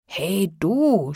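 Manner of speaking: shouting. A narrator's reading. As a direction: call out roughly as the giant. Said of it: "schrie er". (rufender Riese)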